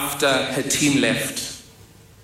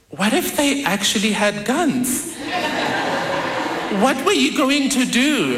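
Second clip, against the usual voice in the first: laughing disbelief; 8 semitones higher than usual. Retold or imitated. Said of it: "My cousins and I say to her".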